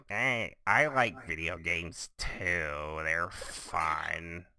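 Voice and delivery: slow, dorky drawn-out nerd voice; mock your own voice as a hopeless nerd; nerdy self-parody. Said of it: "how nerdy I sound on this show".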